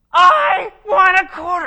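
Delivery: high, slow screaming tantrum yell; child tantrum. Retold or imitated. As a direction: scream it like a furious little girl. Girl throws a tantrum.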